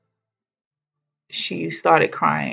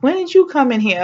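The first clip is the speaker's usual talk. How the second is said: higher, puzzled question; mildly startled, pitched up; retold surprised question; 8 semitones higher, 3 dB louder, faster than usual. Waking patient asking her mother, surprised.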